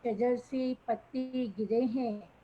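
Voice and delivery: measured verse delivery, lilting down each line; poetry recitation. Acted. Poet repeating her opening line to the audience, reciting. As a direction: recite the couplet for an appreciative gathering.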